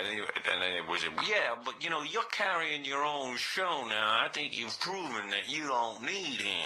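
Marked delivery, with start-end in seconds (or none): 1.2-6.7 the Dwayne voice. Pretend. Fake caller Dwayne urging Robin on, slow. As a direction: coax her slowly in the put-on voice. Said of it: "So I got the voice".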